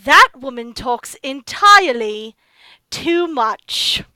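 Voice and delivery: villain voice. Acted. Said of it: "a voice go".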